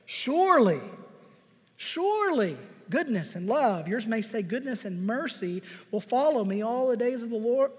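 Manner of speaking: strong, sure opening on "Surely"; confident declaration. Acted. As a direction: proclaim it with confidence. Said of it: "he confidently says".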